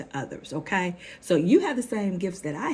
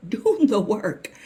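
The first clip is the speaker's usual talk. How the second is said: slow command, pushed louder; slow emphatic urging; 4 semitones higher, 5 dB louder, slower than usual. Real, not acted. Coach repeating the advice to followers, slow and insistent. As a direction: repeat it slowly with force.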